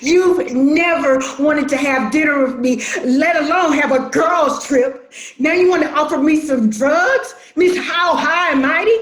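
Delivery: bitter, shouted retort; hurt, angry yelling; angry shouting. Acted. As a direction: shout it back at her sister. Sister confronts sister angrily.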